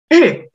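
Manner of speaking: teacher's demo of falling 日; explosive falling tone. Shown as a demonstration. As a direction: fire off 日 as a small explosion.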